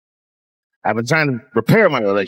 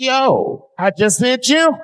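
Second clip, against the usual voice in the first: indignant retort; 11 semitones higher, much slower than usual. Pretend. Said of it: "And he's like".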